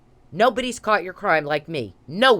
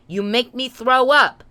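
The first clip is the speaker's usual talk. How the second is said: angry repeat; 4 semitones higher than usual. Real, not acted. Repeats line louder.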